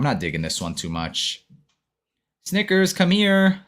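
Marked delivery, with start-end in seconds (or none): 2.4-3.6 high, slow call to the dog. Real, not acted. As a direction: call him from across the room, high and drawn out. Calling the dog over.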